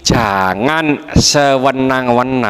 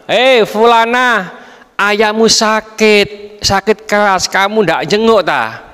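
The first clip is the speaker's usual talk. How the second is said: neighbour calling; 5 semitones higher than usual. Acted. (tetangga memanggil dengan suara tinggi dan pelan)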